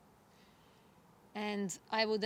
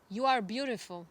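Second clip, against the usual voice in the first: called out. Retold or imitated. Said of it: "Father yelled again".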